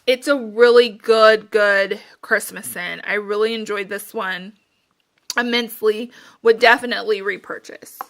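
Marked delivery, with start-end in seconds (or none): 3.0-8.0 out of breath. Real, not acted. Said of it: "I'm so out of breath".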